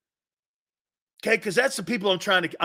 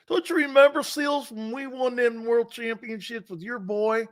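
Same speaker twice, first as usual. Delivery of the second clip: Cowboy fan with teeth in; 3 semitones higher than usual. Retold or imitated. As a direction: pipe up as a nostalgic Cowboy fan. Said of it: "Cowboy guy, put your false teeth in".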